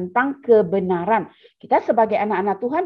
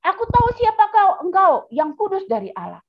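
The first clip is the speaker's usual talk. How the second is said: possessed man's shriek; 8 semitones higher than usual. Acted. The possessed man cries out at Jesus in a high demonic shriek. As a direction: shriek like the demon inside him. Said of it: "dia berkatakan".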